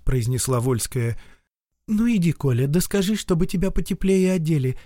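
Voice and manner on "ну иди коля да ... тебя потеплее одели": mother voice. Acted. Мать зовёт ребёнка одеться.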